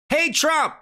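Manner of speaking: high, sarcastic sing-song Hey, Trump!; mocking echo. Preacher mocking the roommate's greeting, sarcastic mock call. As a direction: sneer the greeting back as a joke. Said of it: "he sounds like he really cares".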